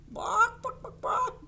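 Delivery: high, loud yappy barks; toy-dog yaps, high; playful barking. Pretend. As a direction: bark like a little puppy. Playful animal sound for kids.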